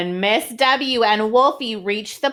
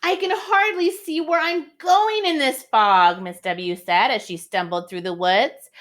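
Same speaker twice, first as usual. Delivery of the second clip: higher, bright storybook lady voice; Miss W voice; 5 semitones higher than usual. Acted. Miss W stumbles through the fog, higher storybook voice. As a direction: play the puzzled lady lost in fog. Reads Miss W's lines.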